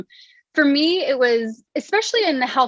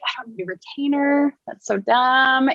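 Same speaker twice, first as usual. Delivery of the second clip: put-on bratty kid voice; 3 semitones higher than usual. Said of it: "that naughty child who was like".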